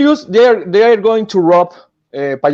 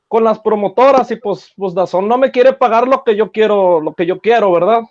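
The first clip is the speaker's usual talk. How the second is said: mild Canelo voice in a post-fight interview; Canelo impression. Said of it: "Canelo impression".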